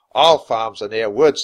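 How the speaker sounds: loud, slow, amused captain; laughing. A narrator's reading. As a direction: say it through a chuckle, drawn out. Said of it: "said with a laugh".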